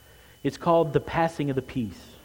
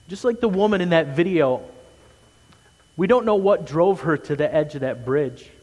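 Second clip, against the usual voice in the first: louder, pressing pulpit appeal; earnest sermon push; urgent preaching; 3 semitones higher, 6 dB louder than usual. Acted. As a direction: drive the point home to the congregation.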